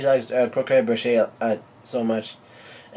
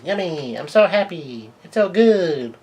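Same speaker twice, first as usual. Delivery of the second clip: high-pitched, gleeful squeal building louder; delighted child; 6 semitones higher, 4 dB louder than usual. Acted. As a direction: voice a little girl thrilled with her food. Lillian delighted by the food.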